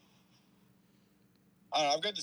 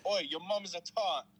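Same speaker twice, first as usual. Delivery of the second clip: higher-pitched British jeer; mock British accent; 5 semitones higher than usual. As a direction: taunt in a put-on Brit voice. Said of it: "Oh, British people".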